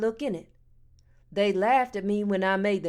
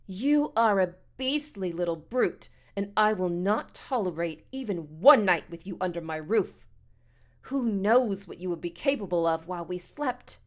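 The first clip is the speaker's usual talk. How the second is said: a hint of a prim, outraged matron; haughty scolding woman. Voices scolding Missus Amos.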